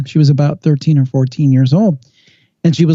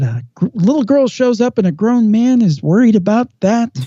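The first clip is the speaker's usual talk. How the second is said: higher-pitched, retold incredulous mockery; mocking disbelief; 6 semitones higher than usual. Police laughing off a grown man's report, mocking. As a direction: imitate scoffing at a worried man, pitched up. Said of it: "and they laughed at him".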